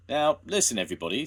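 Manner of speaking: loud call for attention. A narrator's reading. Jones calling the crowd to order, loud. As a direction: raise it over the crowd.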